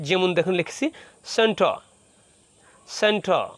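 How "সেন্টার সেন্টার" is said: সেন্টার with a long open final vowel, no r; drawn-out ending. Shown as a demonstration. Teacher shows learners the long ending, drawn-out সেন্টার. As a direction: stretch the last syllable of সেন্টার. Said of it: "এখানে আমরা একটু টান দেবো".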